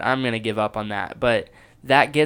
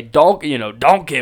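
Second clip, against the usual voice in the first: lightly voiced Donkey, a little louder; half-hearted punch on a cartoon character's catchword; Shrek Donkey impression; 5 dB louder than usual. Comic recalling his Shrek tagline, lightly voiced Donkey. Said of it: "whatever the voice is".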